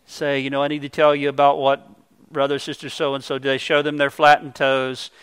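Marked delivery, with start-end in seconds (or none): 0.4-3.5 hushed, softer pious voice, lightly put on; mock spiritual tone. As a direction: play the falsely pious gossip, softly. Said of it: "put on a kind of a spiritual tone of voice".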